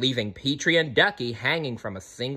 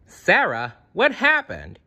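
raised, high-pitched storybook yell; mild yell; 9 semitones higher, 3 dB louder than usual. A narrator's reading. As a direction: call out urgently, without full shouting. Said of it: "he yelled".

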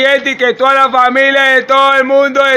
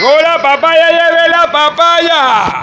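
hyped fairground barker; 2 semitones higher than usual. Acted. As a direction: call out to buyers, hawking fruit. Vendor hawking papaya.

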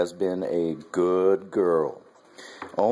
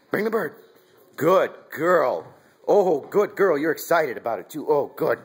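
high, loud excited praise; dog praise; 7 semitones higher, 4 dB louder, slower than usual. Real, not acted. Owner calling puppy to fetch the bird, then gushing high praise. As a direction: cheer the puppy on as she fetches.

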